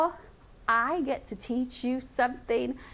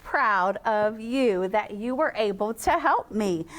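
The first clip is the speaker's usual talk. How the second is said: teacher praising a helper; proud praise; 3 semitones lower than usual. Real, not acted. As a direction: pour on the pride. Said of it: "I am so proud".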